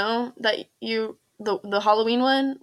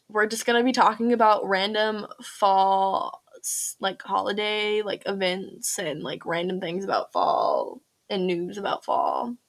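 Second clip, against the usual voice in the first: slow, low and trailing off; unenthused; 3 semitones lower, 4 dB quieter than usual. Real, not acted. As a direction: drag through it, bored. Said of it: "You sound so unenthused about this stuff".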